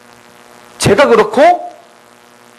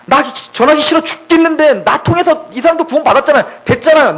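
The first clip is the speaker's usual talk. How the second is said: higher-pitched acted complaint; Jonah, angry; 4 semitones higher than usual. Jonah resentfully complaining to God after the revival, mock anger. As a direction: grumble in mock exasperation. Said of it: "화가 나가지고".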